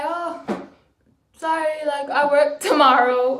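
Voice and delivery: sweetly decline, dismissive underneath; mock sweet refusal. Telling the manager she can't come in, mock sweet.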